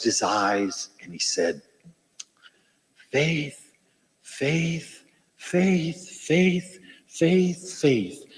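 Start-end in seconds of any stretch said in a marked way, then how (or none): 3.1-8.2 soft, slow, reverent faith, faith, faith; hushed repeated faith. Retold or imitated. Little preacher gives whole sermon to congregation, soft and reverent. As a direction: say faith over and over like a prayer.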